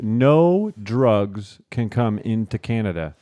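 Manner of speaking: mock border officer laying down rules; stern official warning. Imitating officers warning students at the border, slow stern voice.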